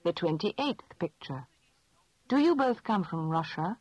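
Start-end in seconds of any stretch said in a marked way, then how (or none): none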